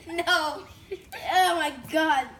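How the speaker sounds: loud high protest at the sour taste; sour shock shout. Real, not acted. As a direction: cry out from the sourness. Tasting sour slime.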